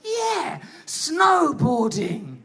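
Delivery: drawn-out excited cheer; slow hyped shout. Retold or imitated. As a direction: hype it like an ad. Imagined cool snowboarding image.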